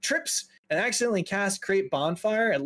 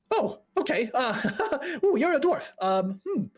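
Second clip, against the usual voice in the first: high, awkward voice with nervous giggles; flustered mage fumbling for politeness; hesitate, titter, then explain awkwardly; anxious fella; 4 semitones higher, 4 dB louder than usual. Acted. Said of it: "anxious fella kind of walks up to you".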